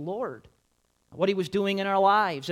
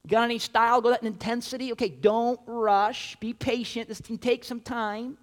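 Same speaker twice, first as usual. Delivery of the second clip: high voice holding someone back; taken aback; 5 semitones higher, 5 dB louder than usual. Retold or imitated. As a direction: whoa there, calm him down. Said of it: "You're like".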